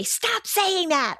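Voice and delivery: put-on high, slow, whiny kid voice; mimicking a whiny kid. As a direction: whine it like an annoyed tween. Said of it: "or they'll say".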